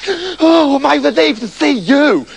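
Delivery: high, gushing relief; hammed-up desperate relief; relieved cry. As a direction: cry out to a long-awaited rescuer. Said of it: "cried Septimus".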